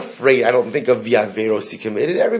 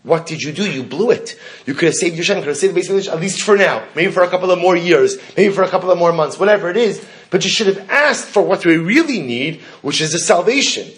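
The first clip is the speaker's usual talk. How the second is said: mild exasperated scolding, higher pitched as it builds; exasperated rebuke; 4 semitones higher than usual. Acted. Rabbis second-guessing Yochanan ben Zakkai's request, exasperated rebuke. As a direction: chide him, voice rising through the list.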